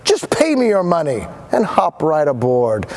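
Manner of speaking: high eager huckster voice; lightly voiced showman sales pitch; salesman pitch. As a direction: lure them in like a carnival barker. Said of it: "and he said".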